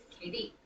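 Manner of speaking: "K D" with the weight on D; light K, then stressed D in "K D"; iambic stress. Shown as a demonstration. Teacher forces the name Katie into iambic, stressing D in "K D". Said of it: "gonna do an iambic pattern".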